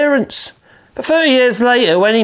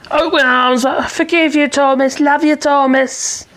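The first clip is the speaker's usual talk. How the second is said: mock forgiveness; 4 semitones higher, slower than usual. Mock forgiving message to Thomas.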